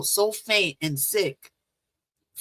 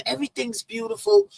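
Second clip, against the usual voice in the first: awed high; 14 semitones higher, faster than usual. Retold or imitated. Describing dreamy light show.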